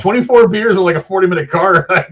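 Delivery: high, loud and amazed; excited disbelief. Real, not acted. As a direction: marvel at it, laughing through. Amazed retelling, laughing.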